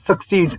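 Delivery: "succeed" said slowly as suk-SEED, stress on the second syllable; careful pronunciation. Shown as a demonstration. Teacher showing students how to say succeed, careful and slow. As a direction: spell out "succeed" clearly for the class. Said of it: "इसे succeed पढ़ेंगे".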